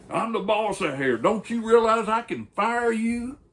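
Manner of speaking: high, loud outraged boss; angry boss shouting. Retold or imitated. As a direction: yell it like a boss pulling rank. Boss threatens to fire biker.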